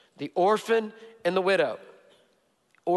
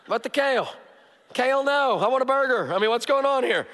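whiny husband at dinner; 5 semitones higher than usual. Retold or imitated. Husband protesting his wife's kale dinner, high whiny voice. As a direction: whine like a kid denied a burger. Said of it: "and I go".

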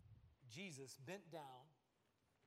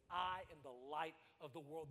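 triumphant; 5 dB louder than usual. Acted. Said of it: "Jesus triumphantly says".

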